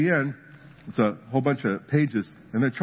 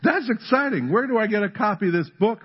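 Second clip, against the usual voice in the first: excited neighbor; 9 semitones higher than usual. Retold or imitated. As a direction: marvel like a neighbor hooked. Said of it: "the neighbor's going".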